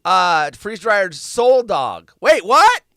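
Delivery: high, loud wait, what; startled double take. Real, not acted. Rereading the story, stunned by soul dog. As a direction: catch the odd phrase and balk.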